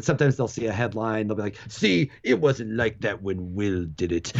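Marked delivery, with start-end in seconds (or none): 1.7-4.3 slow, drawn-out mock grumbling; mock complaint. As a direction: imitate a griping reader, low and slow. Mimics complaining readers at headline.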